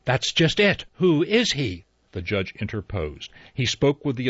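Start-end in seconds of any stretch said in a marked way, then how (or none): 0.0-1.8 higher, louder sharp retort. Acted. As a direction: snap the question back. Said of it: "She said sharply".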